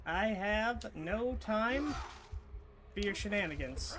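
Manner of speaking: drawn out, high, hammy exasperation; mock dramatic. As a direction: stretch it like a huffy hero.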